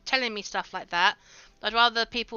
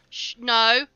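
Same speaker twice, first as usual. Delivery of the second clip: frustrated protest; 4 semitones higher, 8 dB louder, slower than usual. Real, not acted. Reacting to a bad move in battle.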